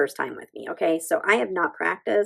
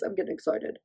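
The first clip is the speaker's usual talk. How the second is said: whispered; 8 dB quieter than usual. Real, not acted. Repeat excitement in whisper.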